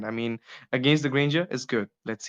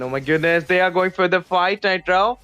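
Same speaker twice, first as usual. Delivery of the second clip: louder, rising hype as the fight starts; sudden play-by-play excitement, a bit higher and louder; excited caster call; 4 semitones higher, 4 dB louder than usual. Real, not acted. Fight breaks out in game.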